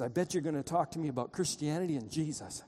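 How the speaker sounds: lightly imitated German accent. East German visitor challenging the driver, light German accent. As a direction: retell it with a slight German accent. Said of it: "in a German accent".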